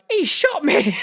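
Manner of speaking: high, laughing hurt cry; mock-wounded pirate, laughing; laughing pirate whine. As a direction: squeak it out through laughter. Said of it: "Pintel's like".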